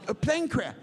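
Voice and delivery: imitated Italian accent. Italian man repeating bad news to banker, high Italian accent. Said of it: "He goes".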